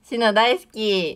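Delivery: slow, drawn-out cutesy declaration; idol-style affection performed on request; sweet fan-service confession. Pretend. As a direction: stretch the "love you" sweetly. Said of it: "じゃあ行きますよ".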